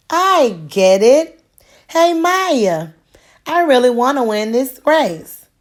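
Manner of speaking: light up with the idea; excited realization. A narrator's reading. Raphael tells Maya he gets it, excited and eager.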